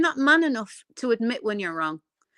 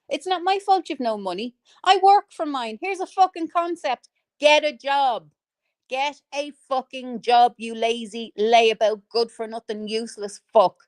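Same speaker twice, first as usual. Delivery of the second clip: angry telling-off. Real, not acted. Berating broke critics to get a job, angry. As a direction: lay down each word in real anger.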